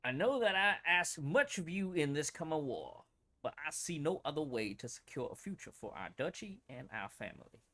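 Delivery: put-on light old Southern gentleman accent on the letter. Streamer reading the Archduke's letter aloud, in a light Southern accent. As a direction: read it like a genteel old Southern man. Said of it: "with that, that old Southern accent".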